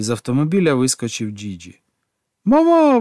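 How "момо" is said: high joyful shout of her name; overjoyed cry of reunion; exclaimed name. A narrator's reading. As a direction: call out Momo with delight. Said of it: "вигукнув він".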